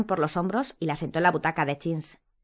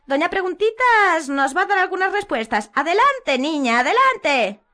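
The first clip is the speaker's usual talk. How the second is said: high, loud mocking coax; slow sugary taunt; Umbridge voice; 12 semitones higher, 7 dB louder, slower than usual. A narrator's reading. Umbridge coaxing Hermione, mocking and high.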